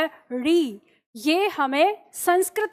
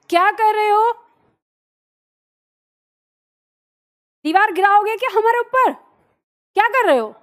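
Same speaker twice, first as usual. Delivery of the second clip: loud, higher sharp rebuke; real scolding; 6 semitones higher, 5 dB louder, faster than usual. Real, not acted. Teacher scolding someone making noise outside, loudly. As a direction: call out the noisy workers firmly.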